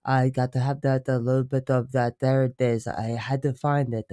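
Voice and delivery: put-on old-fashioned, very stuck-up British accent; stuck-up English accent. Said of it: "I think I also talk like this".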